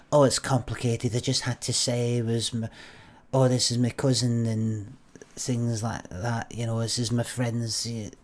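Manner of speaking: lightly put-on Blackpool woman's voice; Blackpool accent. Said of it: "is that a Blackpool accent you've got".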